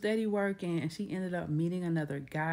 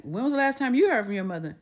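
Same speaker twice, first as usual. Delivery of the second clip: quick, higher, louder urgent question; higher, louder alarmed quote; alarmed grandma; 5 semitones higher, 4 dB louder, faster than usual. Retold or imitated. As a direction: grandmother suddenly worried, pressing fast.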